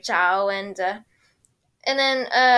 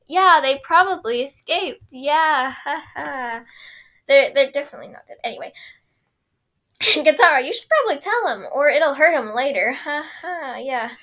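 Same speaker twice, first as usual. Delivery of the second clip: nervous cheery Aang; 3 semitones higher, 5 dB louder than usual. Retold or imitated. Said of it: "He's just like".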